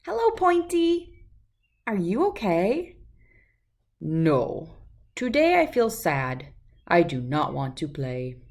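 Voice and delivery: lively storybook read-aloud with voices; reading to children. A narrator's reading. Reader sharing a picture book with children, lively storytelling. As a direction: read it like to a room of kids.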